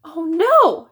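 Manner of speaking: loud, high dismayed cry; shocked mom. A narrator's reading. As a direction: gasp it out in alarm. Mom shocked at Tootsie's state.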